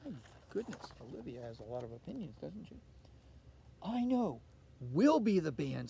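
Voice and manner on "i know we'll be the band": loud, eager announcement; Olivia's bright idea. Acted. Olivia announces to her mother they will be the band, eager. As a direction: declare the plan triumphantly. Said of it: "said Olivia".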